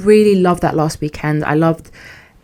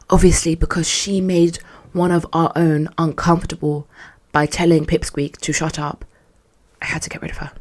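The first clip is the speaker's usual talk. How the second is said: whispered mock boss. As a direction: hiss his excuse in a whisper. Mocking boss's meeting claim.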